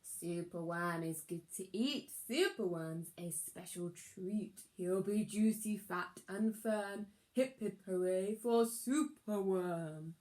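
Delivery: a lightly voiced greedy crow; dreadful croak. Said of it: "his dreadful croak".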